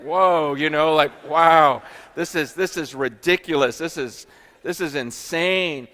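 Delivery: loud, wide-eyed wonder; stunned and thrilled exclamation; amazed. Retold or imitated. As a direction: gasp it out like a kid hearing a great story. Wide-eyed awe at persecution stories.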